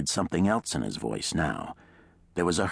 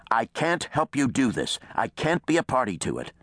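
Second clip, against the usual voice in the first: raised, heated refusal; unabated fury; 7 semitones higher than usual. A narrator's reading. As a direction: refuse angrily, pitch up. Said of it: "Reese's fury was unabated".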